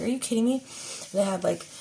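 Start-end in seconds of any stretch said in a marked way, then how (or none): 0.0-0.6 mock exasperated cry; a touch of mock disbelief; retold anger. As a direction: throw it out, half-hearted fury. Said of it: "I was like".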